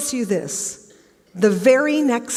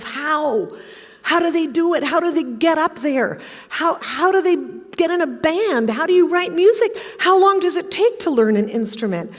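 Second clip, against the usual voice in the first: pitched-up string of awed questions; acted eager wondering; 5 semitones higher than usual. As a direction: marvel at it, questions tumbling out higher. Young self marvelling at musicians.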